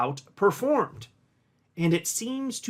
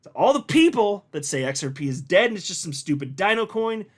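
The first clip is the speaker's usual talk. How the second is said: same line again at a brisk, lively pitch, a notch less hyped; lively restatement; 3 semitones higher, 3 dB louder than usual. Real, not acted. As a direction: lay out the whole charge to the doubters. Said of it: "I'm gonna repeat it".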